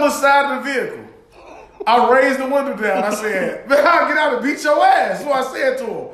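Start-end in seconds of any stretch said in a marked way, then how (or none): 3.7-5.2 raised, heated warning; angry threat. Retold or imitated. Threatening the driver from the window, heated. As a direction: threaten with pitch lifted, without a full yell. Retelling his threat to the car.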